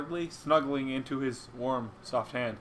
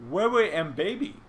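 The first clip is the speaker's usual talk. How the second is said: put-on higher baby-talk question; lightly voiced confused little creature; baby fluffy; 5 semitones higher than usual. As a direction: put on a mild babyish voice.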